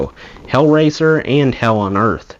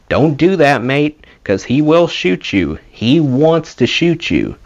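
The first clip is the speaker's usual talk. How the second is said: urgent warning; 4 semitones higher, slower than usual. Retold or imitated. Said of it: "we kept telling him".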